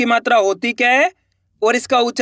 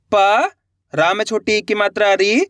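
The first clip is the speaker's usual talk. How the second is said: प and री sounded out slowly, separated; syllable by syllable again. Shown as a demonstration. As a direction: spell out each letter clearly. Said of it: "देखो किस तरीके से". (अक्षर अलग अलग करके बोलना)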